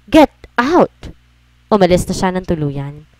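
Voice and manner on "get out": husband shouting at the woman who kissed him; furious shout. Acted. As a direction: yell it, high and loud. Third furious order to leave.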